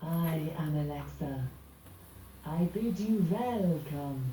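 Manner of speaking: slow vampire voice, words drawn out; Dracula. Acted. Assistant performs on the owner's request, slow Dracula impression. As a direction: intone it slowly like a vampire count. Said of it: "do your Dracula impression".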